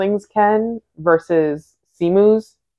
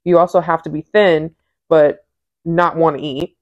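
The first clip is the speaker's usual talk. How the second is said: reading aloud. Acted. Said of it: "I'm gonna read".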